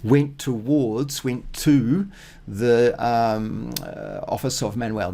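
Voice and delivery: "Went towards" said slowly with weight; slow emphatic gloss. Shown as a demonstration. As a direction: stress "Went towards" deliberately. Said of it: "really important pronunciation difference".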